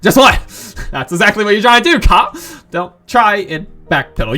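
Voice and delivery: put-on indignant girl catching someone dodging; angry retort. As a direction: call him out for backpedaling. Natsuki snaps at the player.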